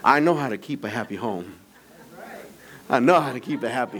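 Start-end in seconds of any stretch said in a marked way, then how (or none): 0.0-1.5 laughing. Real, not acted.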